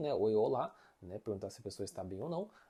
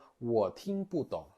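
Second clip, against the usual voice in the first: slow model phrase; 3 dB louder, slower than usual. Shown as a demonstration.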